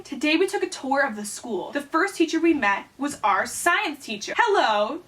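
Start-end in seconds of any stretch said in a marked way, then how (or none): 4.4-5.0 higher hello with a mock Italian lilt; Italian accent. Science teacher greeting new students, light Italian accent. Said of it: "said it in an Italian accent".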